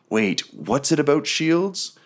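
high, slow puzzled wondering; slow down as a doubt dawns; nagging inner thought. Acted. Game master voices the caster's sudden doubt, high and slow. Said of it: "back of your head that you're like".

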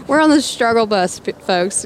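raspy, like a longtime smoker; hoarse smoker's voice; smoker's rasp. Real, not acted. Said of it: "I sound like I've been smoking cigarettes for thirty years".

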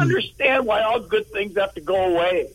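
high, bewildered, half-laughing disbelief; can't grasp why it's ending; dumbfounded. Real, not acted. Host's show is ending.

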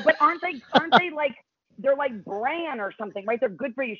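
naive pleading. Retold or imitated. Retold naive pleading question.

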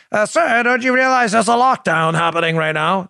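a hint of a prim British reporter; faint British accent. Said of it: "probably a British accent".

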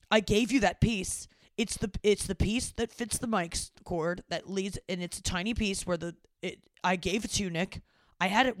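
dad's insistence. Retold or imitated. Dad insisting she has the piece.

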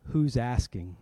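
low-pitched, guarded challenge; imitated tough stranger. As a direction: play the intimidating stranger sizing someone up. Intimidating stranger's curt reply acted out.

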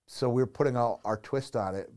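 ordinary talk, nothing marked

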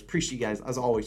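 ordinary talk

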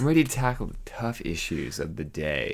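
low, self-important proclamation; lightly puffed-up pompous delivery. Pretend. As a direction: announce it with mock grandeur. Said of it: "You sound like a pompous ass".

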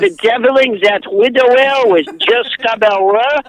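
indignant question in fake French accent; hammed-up French questioner; bogus French accent. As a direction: put on a silly French accent. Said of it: "it's really fun to do a bogus French accent".

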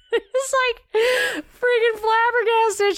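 high, slow mock amazement; flabbergasted. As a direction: act out the host's jaw dropping. Mocking host's shocked reaction.

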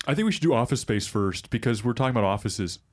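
forced fake deep voice; Elizabeth Holmes deep voice. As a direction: push the voice down into a put-on baritone. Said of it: "return to the Elizabeth Holmes fake deep voice".

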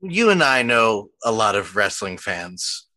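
strong Philly accent, slow. Real, not acted. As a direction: slip into a thick Philadelphia accent. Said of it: "My Philly accent came out so hard".

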